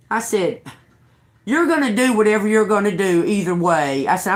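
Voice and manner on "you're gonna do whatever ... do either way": retold defiance. Retold standoff with police officer.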